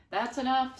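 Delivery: high, loud stop command; aunt cutting the boy off sharply; sharp cutoff. Acted. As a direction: shut it down at once. Aunt cuts off lecture.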